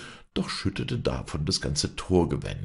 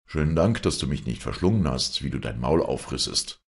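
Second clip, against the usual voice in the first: mocking. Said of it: "spottete der Gutsherr".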